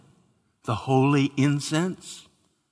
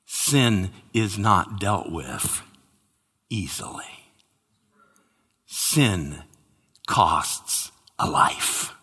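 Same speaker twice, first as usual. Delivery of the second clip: lower, slow, half-whispered warning; hushed solemn; 6 semitones lower, 3 dB quieter, slower than usual. Acted. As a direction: breathe the cost of sin out slowly. Solemn warning about sin.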